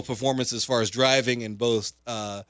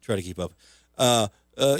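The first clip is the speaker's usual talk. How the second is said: usual speaking voice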